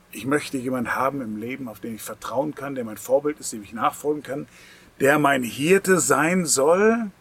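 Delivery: sample prayer. Shown as a demonstration. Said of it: "Heute ist der Zeitpunkt zu sagen".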